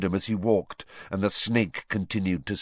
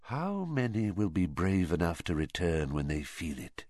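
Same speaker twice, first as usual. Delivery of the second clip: whispered; 3 semitones lower, 6 dB quieter than usual. Acted. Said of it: "he whispered".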